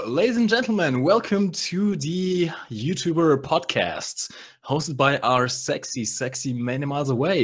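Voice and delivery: slow, grand show-host intro; announcer voice. Pretend.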